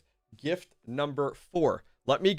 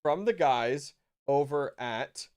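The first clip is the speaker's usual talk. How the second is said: hyped giveaway announcement; 5 dB louder than usual. Real, not acted. Asking winner to choose prize.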